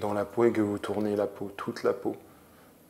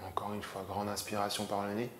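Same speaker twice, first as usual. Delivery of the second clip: calm yoga nidra instruction; measured relaxation voice with long pauses; guided meditation; 10 dB quieter than usual. Acted. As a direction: guide them gently into rest, pausing often.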